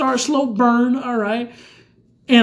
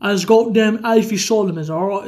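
put-on low, mumbled British gangster accent; deep put-on British accent; Tom Hardy as Alfie Solomons; 4 semitones lower than usual. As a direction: mumble low as if mouth is full. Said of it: "so this is my impression".

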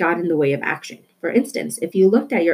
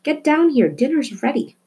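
mother's shout; 8 semitones higher than usual. A narrator's reading. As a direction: yell up the stairs that dinner is ready. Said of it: "her mother shouted".

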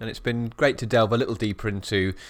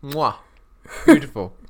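chef's kiss; 4 semitones higher, 7 dB louder than usual. Real, not acted. Chef's kiss savouring the pie.

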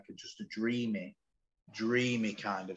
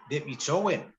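higher, gently urging voice; higher, mock-encouraging nudge; coaxing; 8 semitones higher, 5 dB louder than usual. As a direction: coax a hesitant mate to try. Voicing a coaxing friend.

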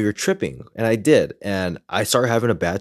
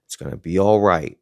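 calming coach voice; slower than usual. Retold or imitated. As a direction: talk him down gently like a patient coach. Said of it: "in his calming voice".

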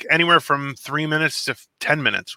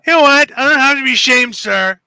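much higher and louder, hammed-up indignation; mock offended; 10 semitones higher, 8 dB louder than usual. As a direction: play at being deeply insulted. Mock offense at being teased.

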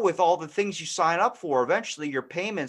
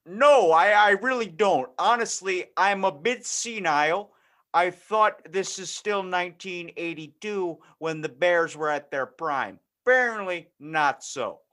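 clueless dad; 2 semitones higher than usual. Acted. Clueless dad calling his internet provider, folksy voice. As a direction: play a cheerful clueless dad. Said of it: "that dad that doesn't actually know".

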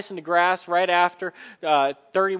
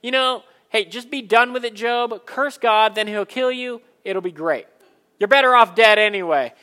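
upset wife; 2 semitones higher, 6 dB louder than usual. Retold or imitated. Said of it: "the upset wife actually says".

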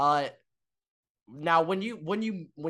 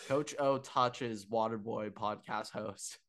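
slow, measured mock headline; slower than usual. Co-host pitching clickbait about the encounter, mock headline.

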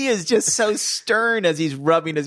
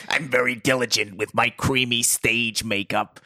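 lightly lowered actor character voice; mock actor voice; 4 semitones lower than usual. Podcaster mimics the actor at his mirror, mock actor voice. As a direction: play the actor a bit low and self-important. Voicing the fussy actor in mockery.

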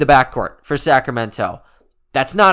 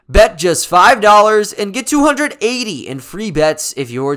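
ad read. Acted. Sponsor ad read mid-show.

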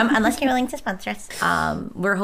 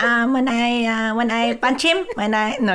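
put-on Filipino accent. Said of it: "That was the last accent of season one".

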